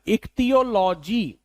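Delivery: ichthyology said slowly, syllable by syllable; teacher modelling ichthyology; pronunciation demo. Shown as a demonstration. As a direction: spell out ichthyology clearly and slowly. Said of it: "किस चीज को pronounce करना है?".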